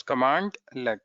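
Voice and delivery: "commandlet" in two parts, command, then let; pronunciation demo. Shown as a demonstration. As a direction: sound out "commandlet" with a break before the let. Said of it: "this is how we pronounce".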